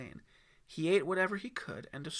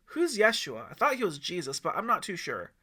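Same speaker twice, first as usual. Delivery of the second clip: put-on kid voice; 4 semitones higher, 6 dB louder than usual. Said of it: "said Aiden".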